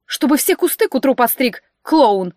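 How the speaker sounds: snapping the last word loud; scolding steward. Acted. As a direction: scold the cleaner, spit out клоун.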